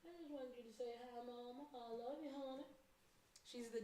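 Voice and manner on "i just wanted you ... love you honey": affectionate southern accent for the pet. Real, not acted. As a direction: talk to her in a southern accent. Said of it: "talking with a southern accent".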